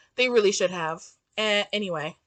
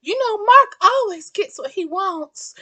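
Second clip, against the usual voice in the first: mocking dumb quote; 2 semitones higher than usual. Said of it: "idiotic, stupid shit like".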